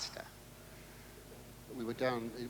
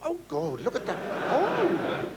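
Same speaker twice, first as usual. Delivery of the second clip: mock shocked gawp; 12 semitones higher, 5 dB louder, slower than usual. Gawping at bikini woman.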